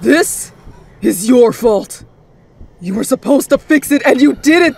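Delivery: heated, high-pitched accusation; furious blame. Acted. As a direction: blame her with mounting rage. Father blames mother while choking her.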